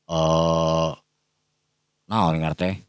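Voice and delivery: ordinary delivery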